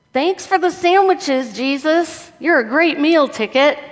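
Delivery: comic, lilting crowd voice; grateful crowd. Acted. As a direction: play a crowd pleased with the free food. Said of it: "the crowd with the, the loaves and fishes and the disciples".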